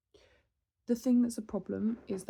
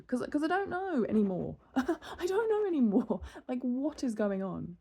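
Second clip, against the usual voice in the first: exasperated laughing; 4 semitones higher than usual. Real, not acted. Exasperated at conflicting advice, laughing.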